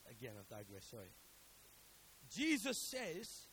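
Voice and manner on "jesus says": slow emphatic lead. Real, not acted. Slow dramatic build-up.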